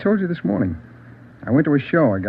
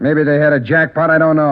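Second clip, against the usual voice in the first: flustered; 3 semitones higher, 6 dB louder than usual. Acted. Suspect flustered by jackpot questions.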